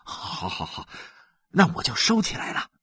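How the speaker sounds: whispered yes yes, then quick; hushed giving in. Acted. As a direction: back down fast in a whisper. Xu gives in quickly.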